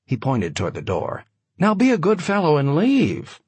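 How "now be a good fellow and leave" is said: controlled anger. A narrator's reading. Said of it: "unable to control his anger".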